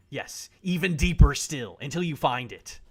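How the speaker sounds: dramatic urging. Acted. Dramatic build after whisper.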